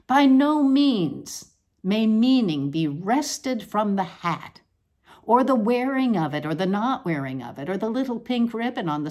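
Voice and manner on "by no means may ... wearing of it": slow solemn pronouncement. Acted.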